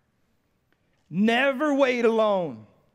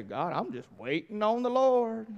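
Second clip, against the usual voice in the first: mock-devout excuse to God; put-on piety from the recliner; mock pious waiting; 4 dB quieter than usual. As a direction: play the idle believer excusing himself to God.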